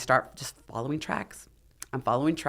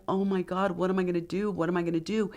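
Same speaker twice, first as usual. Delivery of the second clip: higher-pitched, fretting replay; retold mild panic; 4 semitones higher, faster than usual. Stranded climber asking herself how to get down, mild panic. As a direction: recount helpless worry, voice lifted.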